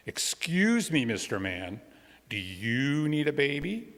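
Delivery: put-on high, loud little-girl voice; a small girl piping up to get a man's attention; bright high call, then a hopeful question. Robin asks man on lawn.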